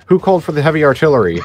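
laughing mock outrage. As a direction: laugh through the line. Mocking enemy surprise.

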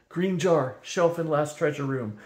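high, strained dragon gasping instructions; choking between coughs. A narrator's reading. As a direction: squeeze the words out between coughs. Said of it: "Kazul managed between coughs".

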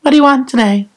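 lightly voiced blunt old person; casual insult, then bright greeting; old office visitor. Old person asking for John, lightly voiced old man. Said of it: "they go".

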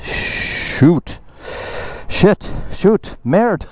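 high squeaky mock curses; string of high cartoon cusses; mock cussing.

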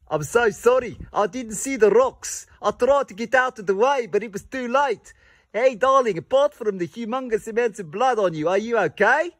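lightly voiced posh husband; posh safari husband. Husband fussing over his darling on safari, mock posh. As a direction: play the doting husband with a touch of camp.

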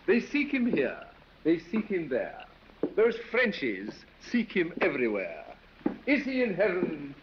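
proud recital of a silly poem. Acted. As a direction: recite the verse with flourish. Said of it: "you must hear my verse".

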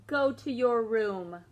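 slow, loud firm command; stern order. Acted. Mom sending David to his room, slow and firm. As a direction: send him off, slow and firm.

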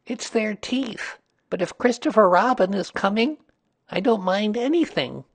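high, earnest little voice; Piglet, earnest. A narrator's reading. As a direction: confess the worry sincerely in a tiny high voice. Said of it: "said Piglet earnestly".

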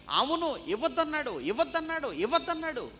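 high, insistent mock shouting; imitated crowd shouting. Preacher mimicking a hundred false witnesses, shouting it repeatedly. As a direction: chant the accusation like a clamouring crowd. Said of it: "వంద మంది అబద్ధాన్ని గట్టిగా అరిచి".

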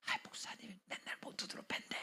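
sly unvoiced whisper; gossiping whisper. Gossip whispering a rumor about the pastor, hushed whisper. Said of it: "몰래 가고 속삭이는 거예요".

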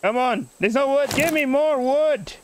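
rising Irish grumble; Irish accent. Pretend. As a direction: demand it like a put-on Irishman. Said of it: "speaking like an Irishman".

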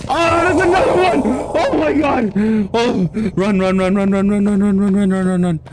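high panicked shouts of run, run; fleeing for your life, screaming; frantic screaming. Real, not acted. Player fleeing a second monster, frantic high screaming.

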